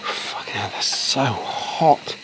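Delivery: strained, breathless under the weight; straining under heavy load. Real, not acted. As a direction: gasp it out while holding something heavy. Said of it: "My arms are burning".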